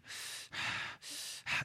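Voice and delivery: audible slow breaths in and out; soft demonstrative breath; demonstrated breathing. Shown as a demonstration. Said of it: "when you're breathing".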